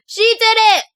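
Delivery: high, loud mock accusation; acted blaming. Child blaming cousin's girlfriend to grandma, high accusing cry. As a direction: point the blame in a high, put-on kid's cry. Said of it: "I blamed it on my cousin's girlfriend".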